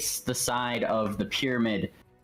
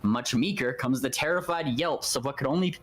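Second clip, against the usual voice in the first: game master narration; 3 semitones higher than usual. Acted. Game master describing the dragon's roar, suspenseful narration. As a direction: draw out the menace as you narrate.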